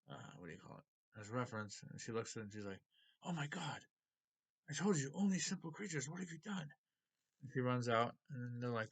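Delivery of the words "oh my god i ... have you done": higher-pitched, distressed retold outburst; horrified reproach. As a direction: voice an appalled accusation, pitched up. Retelling a character's horrified reproach.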